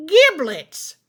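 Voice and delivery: high witch screech. Acted. Witch screeches on seeing her watch, high and sharp. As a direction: shriek it like a startled witch. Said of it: "she screeched".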